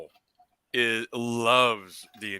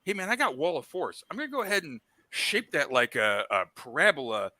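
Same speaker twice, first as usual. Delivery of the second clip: retold player quote; 4 semitones higher than usual. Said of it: "Vince Vaughn was like".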